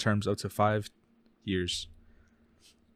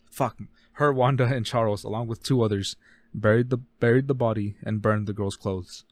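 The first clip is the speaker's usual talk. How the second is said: speaking too fast; hurrying through the line; rushed; 4 dB louder than usual. Real, not acted. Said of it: "I was speaking too fast again".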